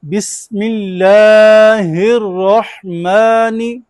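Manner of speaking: drawn-out chanted Quran recitation; slow recitation. Shown as a demonstration. Teacher leads class in slow chanted recitation. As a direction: chant each word slowly, leaning on और. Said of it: "क्या पढ़ेंगे".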